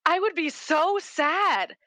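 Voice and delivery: put-on high, drawn-out childlike exclamation; imitated five-year-old daughter. Mother retelling her daughter's answer, high imitated child. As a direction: mimic a little kid's big feeling, slow and high. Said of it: "oh my god, she goes".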